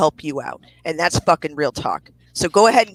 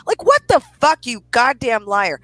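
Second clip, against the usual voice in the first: angry; 5 semitones higher, 3 dB louder than usual. Real, not acted. Rant calling her liar.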